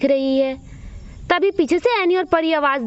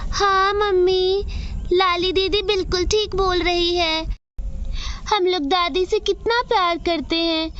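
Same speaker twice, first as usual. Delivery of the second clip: put-on little girl voice; 3 semitones higher than usual. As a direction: speak as the younger sister backing her didi up. Younger girl Pyari speaks.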